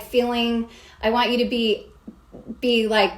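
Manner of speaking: ordinary talk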